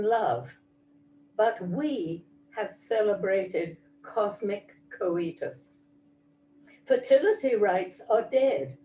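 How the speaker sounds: measured, solemn poetry reading with deliberate pauses; poem recitation. Acted. Mother reads her Moonshot poem to the audience, measured recitation. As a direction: recite it line by line, each phrase falling to a close.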